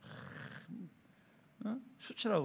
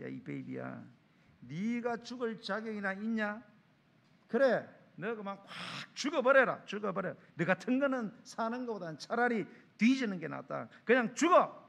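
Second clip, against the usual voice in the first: friend yelling; 3 semitones higher than usual. Retold or imitated. Friend berates suicidal man.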